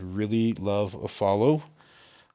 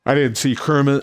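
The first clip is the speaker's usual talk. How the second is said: real yawn pushing through the words; 6 semitones higher, 6 dB louder than usual. Real, not acted. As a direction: talk through a yawn, higher and louder. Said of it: "sorry to yawn on y'all".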